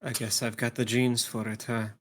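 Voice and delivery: wry line, tailing into a small bitter chuckle; bitter laugh. Acted. Player voices a character joking about their genes, bitter laugh. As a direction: say it with a short bitter laugh at the end. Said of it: "With a bitter laugh".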